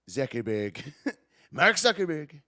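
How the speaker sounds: amused, light mimicry of his speech; Trump. Streamer showing how he talks, amused Trump impression. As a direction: imitate the name his way, with a laugh. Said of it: "No one talks like Trump".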